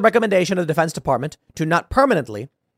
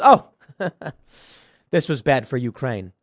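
laughing mock reply; 2 semitones lower than usual. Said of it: "And he goes".

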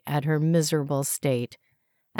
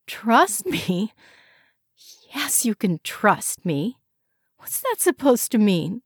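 indignant, higher pitch; offended; 5 semitones higher than usual. A narrator's reading. Wife snapping back at husband's doubt, offended. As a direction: bristle at the insult.

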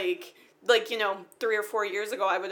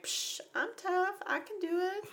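mock tough; 10 semitones higher, 7 dB quieter, slower than usual. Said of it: "I'm like".

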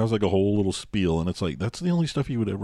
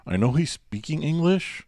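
mock foreign speaker; 2 semitones higher than usual. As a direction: mimic someone whose English is hard to place. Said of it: "doesn't sound like he's speaking very good".

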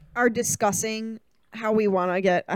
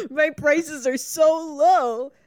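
hard sell ad; 6 semitones higher, 4 dB louder, slower than usual. Acted. Playing along with the salesman bit.

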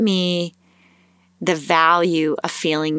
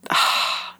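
voiceless sighed "oh"; exasperated sigh. Retold or imitated. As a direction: let out a frustrated sigh, acting it out. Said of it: "starting to feel that feeling like".

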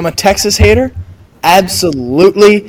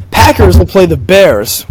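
voice crack; slower than usual. Real, not acted. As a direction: voice cracking on a word. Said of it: "with a little voice crack from me".

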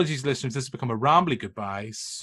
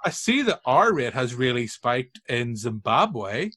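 passive aggressive. Retold or imitated. A hint of the flatmate taunting him with covid news, passive aggressive. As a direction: needle him sweetly while feigning concern. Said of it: "passive aggressively".

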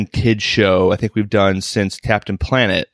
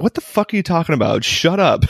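high, quick imitated scolding; mock exasperation; 8 semitones higher than usual. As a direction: act out someone fed up with you. Acting out confused, annoyed wife.

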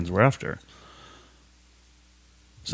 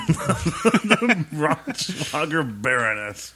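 announcer voice; 4 semitones higher, much slower than usual. Pretend. Repeats the boxer name grandly.

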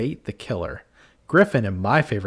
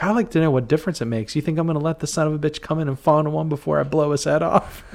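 indignant retort; 6 semitones higher, faster than usual. Retold or imitated. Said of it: "Benson comes back".

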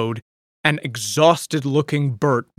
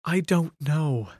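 sadly; 2 semitones higher, 4 dB quieter, slower than usual. Acted. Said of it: "said Polly sadly".

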